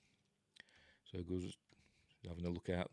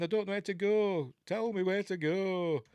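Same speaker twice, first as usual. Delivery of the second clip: frustrated, higher and louder plea; mock-angry demand to be told where to go; getting cross; 10 semitones higher, 4 dB louder than usual. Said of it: "he's getting cross now".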